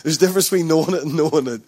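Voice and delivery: a light, quick stab at an Irish accent; hint of Irish accent, teasing the church; mock Irish. Shown as a demonstration. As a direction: say it like a playful Irishman. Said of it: "We're gonna go really Irish now".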